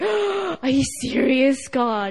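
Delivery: acted bawling. Recalling breaking down on the spot, speaking to god, retelling bawling. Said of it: "on that spot I was bawling".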